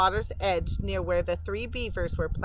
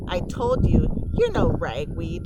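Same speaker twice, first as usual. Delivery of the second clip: taunting sister; 5 dB louder than usual. Acted. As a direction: rub it in, way up high.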